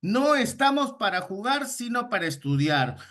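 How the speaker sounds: teacher repeating the example at normal pace; stress on no. Shown as a demonstration. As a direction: open high on "No", drop on "sino". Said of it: "Con el negativo delante".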